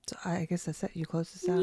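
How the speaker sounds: soft whispered aside; whispering. Real, not acted. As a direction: whisper it off-mic. Quiet aside while wrapping up.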